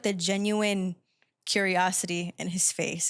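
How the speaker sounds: normal talking voice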